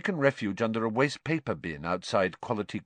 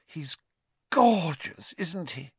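glowing; 7 semitones higher, slower than usual. Acted.

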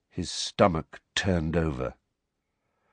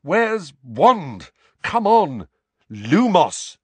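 high, urgent, louder bursts; frantic muttering; 8 semitones higher, 7 dB louder, slower than usual. A narrator's reading. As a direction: blurt it desperately while searching. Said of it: "Harry muttered frantically".

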